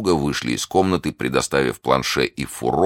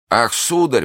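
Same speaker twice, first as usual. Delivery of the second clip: high, plaintive exclamation; frightened servant; 9 semitones higher, slower than usual. A narrator's reading. Planchet after the poisoning, frightened. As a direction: bleat it out in fear. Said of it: "пробормотал Планше, полумёртвый от страха".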